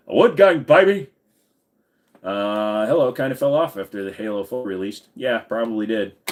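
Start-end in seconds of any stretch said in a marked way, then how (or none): 0.1-1.1 loud, high hype shout. Real, not acted. Streamer hyping chat with a loud high cheer. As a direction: shout it like a rally cry. Hyping his wood house.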